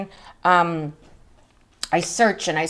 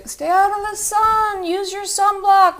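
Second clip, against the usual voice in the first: mock scolding; 12 semitones higher than usual. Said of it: "which most of you would say".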